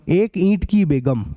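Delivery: slow, each word set apart; slow dictation. Shown as a demonstration. Teacher dictating the sixth question, slowly. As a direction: say it slowly so they can copy it. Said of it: "एक ईंट की बेगम चाहिए".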